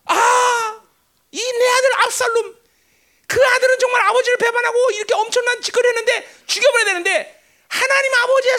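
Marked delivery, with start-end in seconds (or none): 0.1-2.5 높게 올려 부르짖듯 탄식; 아들을 애타게 부르는 아버지처럼. Acted. (아버지가 아들 압살롬을 부르며, 애끓는 탄식)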